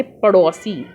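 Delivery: पड़ोसी with a retroflex flap ड़; पड़ोसी said slowly, flapped ड़; correct spelling read. Shown as a demonstration. Teacher modelling the right word for pupils, slow and clear. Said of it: "ये ठीक है, पड़ोसी नहीं".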